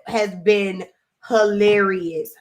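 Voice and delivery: usual speaking voice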